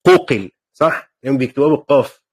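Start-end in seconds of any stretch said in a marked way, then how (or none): 0.1-1.1 قوقل with a uvular q in place of g; q pronunciation. Retold or imitated. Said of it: "يقولوا".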